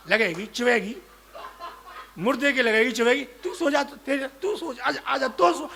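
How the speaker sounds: loud laughing scold. Acted. A man laughing as he scolds the dead man to sleep. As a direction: scold the corpse through laughter.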